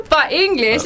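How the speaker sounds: high, slow laughing turn back to English. Real, not acted. Scene: host laughing off her Valley Girl attempt. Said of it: "let's go back to English".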